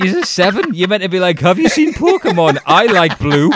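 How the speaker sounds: high, loud incredulous teasing, pitched high; mock disbelief. Teasing a golf prodigy that seven-year-olds should be childish, high and loud. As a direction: rise high and loud, ribbing the kid. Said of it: "it's just like".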